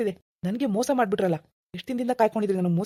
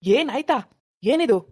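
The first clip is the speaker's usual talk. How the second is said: angry; 3 semitones higher, 3 dB louder, much slower than usual. Acted. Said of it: "ಯಾಕ್ ಕೋಪ ಮಾಡ್ಕೊಂಡಿದ್ದೀರಾ".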